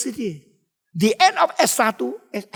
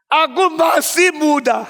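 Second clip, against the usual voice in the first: slow, higher hammed-up wail; mock tearful lament; 7 semitones higher, 4 dB louder, slower than usual. Young emperor lamenting his halted career, mock wail. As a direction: imitate a weeping protest, drawn out and raised. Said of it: "Dia nangis".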